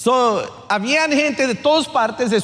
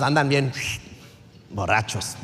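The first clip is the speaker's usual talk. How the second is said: quiet punchline; 9 semitones lower, 6 dB quieter than usual. Real, not acted. Punchline drop.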